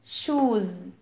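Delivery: "shoes" ending in a buzzing z; Z sound ending. Shown as a demonstration. Teacher showing kids that S has Z sound, "shoes" ending in z. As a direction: let the final s of "shoes" sound as z. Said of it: "Z sound".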